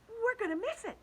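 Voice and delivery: high, loud shout. A narrator's reading. Ladybug bracing for the rainbow, shout. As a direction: shout over the panic. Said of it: "shouted the ladybug".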